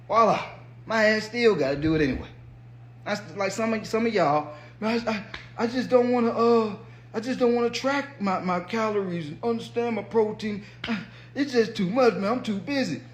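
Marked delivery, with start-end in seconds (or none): 4.8-13.0 higher-pitched imitation of a complaining viewer; mock excuse-making. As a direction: play someone protesting that it's all too much.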